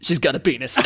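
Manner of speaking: leering commentator parody, half-laughing; mock porn voiceover. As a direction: narrate it like a cheesy adult-film voiceover. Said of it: "my friend basically just doing this voiceover of it".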